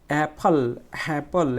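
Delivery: "অ্যাপল" with a firm, open অ্যা; first syllable stressed. Shown as a demonstration. Teacher demonstrating word stress, forceful start on "অ্যাপল". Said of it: "অ্যাপল বলতে গেলে আমাকে একটু জোরে".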